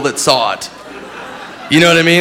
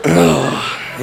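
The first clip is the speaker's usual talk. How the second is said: groan. Acted. Groan after his suicide joke.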